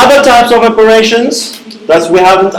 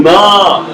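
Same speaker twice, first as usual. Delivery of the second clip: MA with a rising tone. Shown as a demonstration. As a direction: let the pitch climb through MA. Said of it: "there it is rising".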